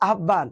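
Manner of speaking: আহ্বান run together as "ahban"; common mispronunciation. Shown as a demonstration. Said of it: "আমরা এটা অনেকে উচ্চারণ কি বলি?". (প্রচলিত ভুল উচ্চারণে আহ্বান)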